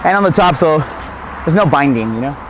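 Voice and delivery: winded, out of breath. Real, not acted. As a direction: talk while catching your breath. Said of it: "Yes, I'm out of breath".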